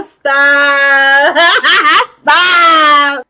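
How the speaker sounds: loud, high, laughing protest; laughing stop. Real, not acted. Viewer overwhelmed by a cheesy line, laughing loudly. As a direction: squeal it's too much. Speaker reacts to "It's perfect.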